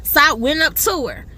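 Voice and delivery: ordinary delivery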